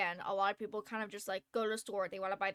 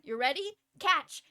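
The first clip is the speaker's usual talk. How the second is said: playful call; 3 semitones higher, 6 dB louder than usual. Retold or imitated. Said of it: "I went".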